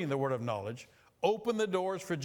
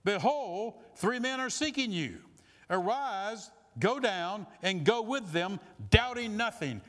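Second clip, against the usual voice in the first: commanding Spirit; 4 semitones higher, slower than usual. Retold or imitated. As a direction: announce it like a voice from heaven. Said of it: "the Spirit said to him".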